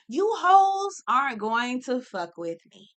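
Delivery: slow, deliberate defiant mantra. Pretend. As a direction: spell out every word of it slowly. Mantra repeated slower.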